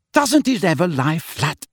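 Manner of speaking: a touch of desperation, voice lifted; desperate. A narrator's reading. Missus Weasley fights Harry's hair, mildly desperate. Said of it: "she said desperately".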